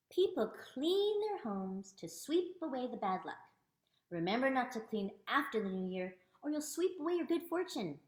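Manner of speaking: clear, emphatic picture-book reading; read-aloud. Acted. Teacher reading New Year cleaning customs to viewers, read-aloud. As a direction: read it out with lively stress on key words.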